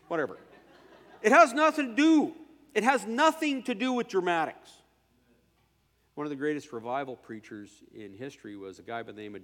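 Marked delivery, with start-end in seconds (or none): 1.2-4.7 laughing, higher. Real, not acted. Scene: preacher laughing at his own dramatics, laughing. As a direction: laugh through it. Laughing after mock shout.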